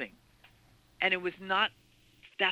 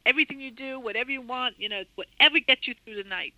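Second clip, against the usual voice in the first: retold screaming; 5 semitones higher, 4 dB louder than usual. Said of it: "And he was screaming".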